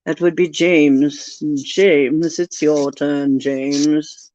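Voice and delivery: slow, low, drawn-out calling; odd drawn-out voice. Pretend. Calling the next viewer James, slow drawn-out odd voice. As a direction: stretch each word out lazily. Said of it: "I don't know why I'm talking like that".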